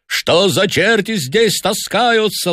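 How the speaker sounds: slow, high-pitched furious cursing; bull-like roar. A narrator's reading. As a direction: roar the words out like an enraged bull. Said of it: "свирепую ругань. Макларен ревел, как бык".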